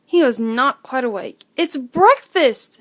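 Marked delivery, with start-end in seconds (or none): 1.6-2.8 slow, louder happy call; excited shout. Acted. Little Owl shouts to Wise Owl about breakfast, excited. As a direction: call it out with joy. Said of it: "shouted Little Owl".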